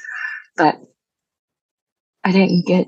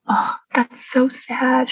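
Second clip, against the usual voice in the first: high, slow, breathy pity; imitating her mother's hushed sympathy; 7 semitones higher, much slower than usual. Retelling her mother's pitying reply, high and hushed. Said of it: "she was like".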